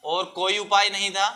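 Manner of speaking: measured phrases with long pauses for copying; classroom dictation. Real, not acted. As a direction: dictate the answer piece by piece.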